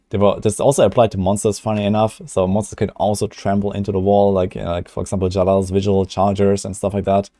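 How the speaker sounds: upbeat presenter voice for a video; polished YouTuber delivery, focused; YouTube voice. Acted. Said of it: "I do have a different YouTube voice".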